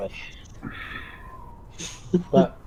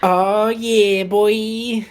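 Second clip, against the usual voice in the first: excited; 8 semitones higher, 6 dB louder, much slower than usual. Real, not acted. Cheering a lucky outcome.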